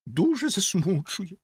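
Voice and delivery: high, slow "засмучує"; theatrical high-pitched sorrow; professed distress. Acted. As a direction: draw out "засмучує" high and plaintive. Rocket professes great distress.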